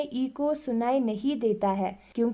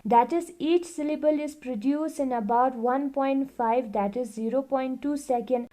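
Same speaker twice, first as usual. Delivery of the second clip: reading the book aloud, very slowly and evenly; slow classroom read-aloud; slow textbook reading; much slower than usual. Acted. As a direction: dictate it word by word to the class. Reads textbook line aloud.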